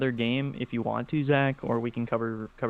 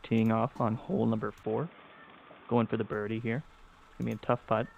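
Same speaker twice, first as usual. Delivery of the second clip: golf commentator. Pretend. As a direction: call the shot like golf TV. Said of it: "Like a golf commentator".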